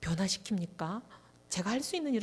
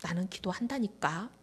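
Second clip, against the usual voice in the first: pastor's stubborn reply; 3 semitones lower, 5 dB quieter than usual. Retold or imitated. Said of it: "이러면".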